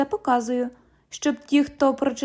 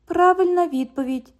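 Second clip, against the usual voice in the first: high, mocking parrot of the cop's phrase; mocking echo; 6 semitones higher than usual. London mocks the cop's stiff phrasing, high and teasing. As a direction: repeat his words back to tease him.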